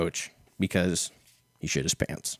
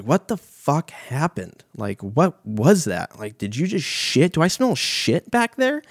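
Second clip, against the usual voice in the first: tag; 7 semitones higher than usual. Retold or imitated. Acted shocked woman after bed accident.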